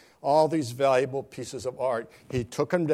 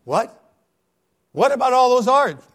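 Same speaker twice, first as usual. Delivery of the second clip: shocked protest; 12 semitones higher, 14 dB louder than usual. Acted. Crowd protests the auction's end.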